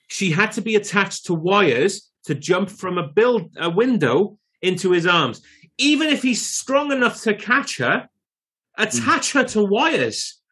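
high-pitched, emphatic disbelief; incredulous protest. Real, not acted. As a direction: argue it point by point, pitch climbing high. Ranting against the wires fact.

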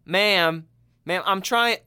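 put-on high, loud, pleading old man, getting frantic; mock grandpa losing it at the booth; flustered grandpa. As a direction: beg the toll lady over and over, rising panic. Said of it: "he's like".

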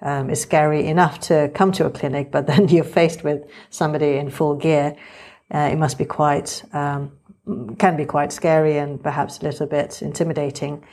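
muffled behind a surgical mask; through a face mask. Real, not acted. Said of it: "You're listening to me talk now with the mask on".

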